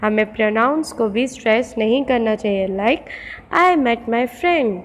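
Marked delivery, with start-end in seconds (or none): 3.5-4.8 "friend" stressed, "I" and "my" light. Shown as a demonstration. Teacher showing students the stress on "friend". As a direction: lean on "friend", skim "I" and "my". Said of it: "मैंने बोलते समय फ्रेंड पे ज़्यादा जोर दिया".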